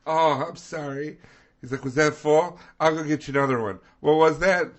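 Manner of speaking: imitated apologetic stranger. Stranger offering to replace a spilled drink, imitated apology.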